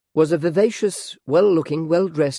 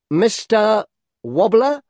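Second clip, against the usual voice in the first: insistent suitor; 8 semitones higher, 6 dB louder, much slower than usual. A narrator's reading. Suitor insists, third time.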